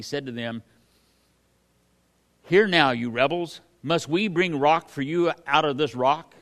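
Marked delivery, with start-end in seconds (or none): 2.4-6.3 loud, exasperated rebuke of the rebels; Moses rebuking. Acted. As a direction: bark it at the crowd like a fed-up leader. Preacher acts Moses rebuking rebels.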